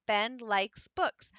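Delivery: "Ben likes books" spaced out slowly, one word at a time. Shown as a demonstration. Teacher modeling a sentence for students, slow and spaced. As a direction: tap out each word slowly. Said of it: "So go to the next one".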